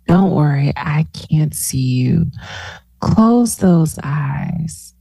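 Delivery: slow, drawn-out meditation lead-in; guided relaxation. Real, not acted.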